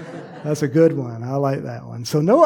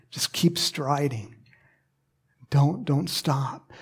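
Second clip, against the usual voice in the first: hushed urging; 3 semitones lower, 6 dB quieter, slower than usual. Real, not acted. Urging runners on softly.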